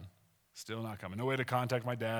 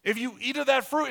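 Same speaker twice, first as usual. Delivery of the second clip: God's warning; 9 semitones higher, 8 dB louder than usual. Pretend. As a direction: pronounce it as a solemn divine decree. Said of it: "All right, here it is".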